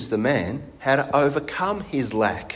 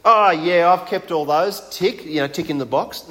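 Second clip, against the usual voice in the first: smug; 3 semitones higher than usual. Retold or imitated. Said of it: "We might hear that as arrogant".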